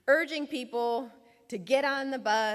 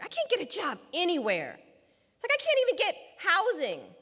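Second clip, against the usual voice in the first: anguished pleading; 4 semitones higher than usual. Retold or imitated. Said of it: "He says".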